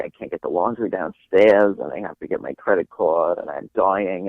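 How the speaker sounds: lightly voiced old Jewish great aunt; Muriel. Imitating a great aunt complaining about chores, lightly voiced old lady. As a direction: imitate an elderly relative's complaining, mildly. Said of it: "She would talk like this".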